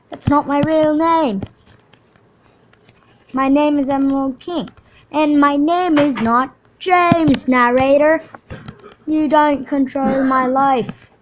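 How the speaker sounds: loud, high protest at the narrator; indignant yelling. Acted. Character shouting at the narrator, indignant. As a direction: scold the narrator who calls you the wrong name.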